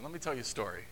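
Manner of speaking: ominous low warning. Retold or imitated. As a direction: drop low and quiet on "Let me tell you a story". Jesus' look, listener dreads it.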